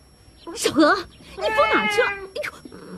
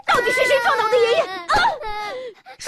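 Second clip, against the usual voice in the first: furious demand; much faster than usual. Acted. Mother grilling her daughter about who knocked grandpa down, shouting and tearful. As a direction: demand the truth through tears.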